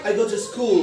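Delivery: "I go to school" slowed, sliding down on "school". Shown as a demonstration. Teacher demonstrating for class, falling tune on "school". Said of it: "নিচের দিকে যাবে".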